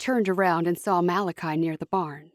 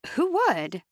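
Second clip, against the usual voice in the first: snapped; 8 semitones higher than usual. A narrator's reading. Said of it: "Cherish snapped".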